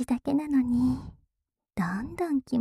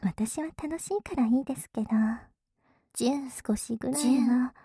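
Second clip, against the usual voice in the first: whispering. Acted. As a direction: tease in a hushed whisper. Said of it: "ささやいてる反対のお耳から".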